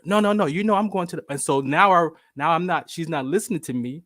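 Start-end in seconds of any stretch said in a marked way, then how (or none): 0.0-1.2 higher, louder mock insistence; imitated hollering mother, mildly raised; mom hollering back. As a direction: talk over the son insistently. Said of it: "She hollers".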